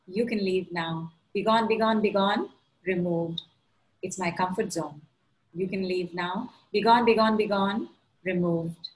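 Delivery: rhythmic ritual chant; clearing incantation. Acted.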